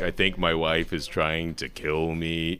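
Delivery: a touch of a low, slowish gloomy voice; depressing mock turtle. Director lightly imitates the mock turtle's gloomy voice. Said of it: "low, slow, depressing kind of voice".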